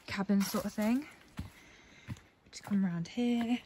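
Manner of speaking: breathless after climbing stairs; puffing between words; out of breath. Real, not acted. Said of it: "I'm out of breath after those stairs".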